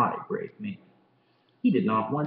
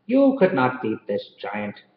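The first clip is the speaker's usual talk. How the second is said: put-on a light Irish accent as a kind policeman; storyteller trying an Irish brogue; 4 semitones lower, 4 dB louder than usual. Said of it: "that was a pretty good Irish accent".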